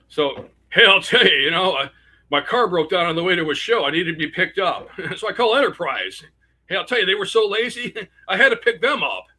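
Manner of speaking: lightly voiced nervous stand-up comic; a hint of Rodney's exasperated delivery; Rodney Dangerfield impression. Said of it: "I'm gonna do one of my jokes as Rodney".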